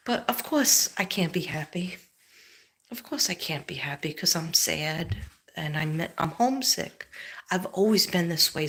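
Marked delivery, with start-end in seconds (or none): 0.1-2.0 tearful whisper. Real, not acted. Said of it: "sorry for acting dramatic". 2.9-7.1 tearful whisper. Real, not acted. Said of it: "sorry for acting dramatic".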